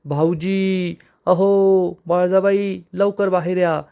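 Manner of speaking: a hammed-up call for everyone to come out; sister-in-law raising the house over a cockroach, mock shouting; calling out loud. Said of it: "जोरजोरात आरडाओरडा सुरू करते".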